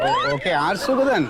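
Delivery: quick, laughing correction; കാര്യമാക്കാതെ ചിരിച്ചുകൊണ്ട്. Acted. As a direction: laugh it off fast.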